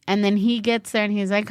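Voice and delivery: usual speaking voice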